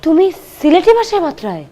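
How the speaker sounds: Sylheti phrase. Acted. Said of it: "ইয়া Allah".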